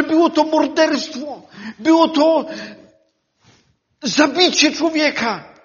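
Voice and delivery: impassioned preaching; preaching at full force. Acted. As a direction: declare belief to the congregation.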